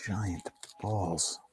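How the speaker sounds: hushed, slow whispered griping; a slow, hissed complaint at the laminate; frustrated whisper. Real, not acted. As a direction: vent it under your breath. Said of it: "Sorry, I had to get it out".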